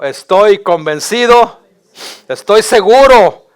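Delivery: rallying "Estoy convencido, estoy seguro"; call to repeat. Shown as a demonstration. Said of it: "diga conmigo".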